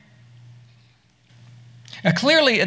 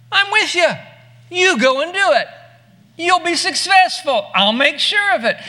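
higher and louder, the angel urging him on; emphatic divine promise; 9 semitones higher, 5 dB louder than usual. Acted. Angel assures doubting Gideon he'll win, bold and emphatic. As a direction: lift it up, bold and insistent.

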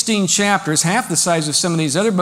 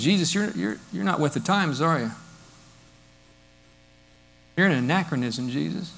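a hint of a smug critic, softer; mock condescension; 2 semitones lower, 7 dB quieter than usual. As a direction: talk down to him as if he were outdated. Mocking churchgoer, condescending.

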